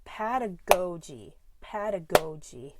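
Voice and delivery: pedagogy with GO stretched and punched; pedagogy, emphatic long GO; stress on GO. Shown as a demonstration. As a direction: say PED-a-GO-gy, leaning on GO. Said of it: "um, the stress".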